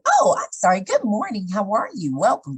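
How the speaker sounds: bright, polite front-desk greeting; customer service voice. Retold or imitated. Speaker greeting a patient in her customer service voice. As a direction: switch on the work voice for a patient. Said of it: "turned on my customer service voice".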